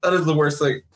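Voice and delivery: high-pitched sympathetic wince; acted-out pained disbelief; retold dismay. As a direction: keep the pitch up, appalled for him. Reacting to the news in story.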